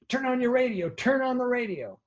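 high, loud urgent call to the room. Retold or imitated. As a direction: burst in shouting the news. Someone runs in with news.

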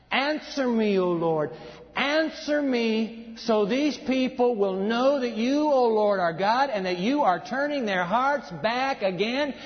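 rising pleading prayer, slow at the peak; preacher reading a prophet's prayer; fervent prayer reading. Acted. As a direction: call on God with urgency. Reads Elijah's prayer with fervor.

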